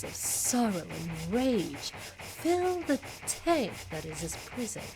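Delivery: lightly voiced bored aristocratic villain. Continues villain dialogue.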